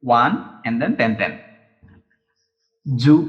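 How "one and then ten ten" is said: slow stroke count. Shown as a demonstration. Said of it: "writing system".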